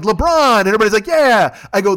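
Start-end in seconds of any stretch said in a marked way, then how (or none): 0.0-0.6 a louder, higher mock cheer; fan cheer. 1.1-1.6 a louder, higher mock crowd yell; crowd cheer.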